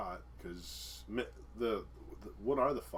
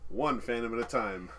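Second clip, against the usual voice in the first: newscaster voice; 4 semitones higher, 6 dB louder than usual. Acted. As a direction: read it like a news anchor. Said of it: "I love talking in my newscaster voice".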